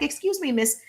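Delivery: bright, high "Excuse me" to a stranger; polite approach voice. Shown as a demonstration. Coach shows how to greet a woman, polite and high. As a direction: open politely and a bit high. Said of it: "I'm like".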